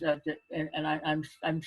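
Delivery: halting false starts, stumbling over the first words; mild put-on stutter; stuttering for effect. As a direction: stammer a little on purpose, for the story. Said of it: "now I'm stuttering now because of the story".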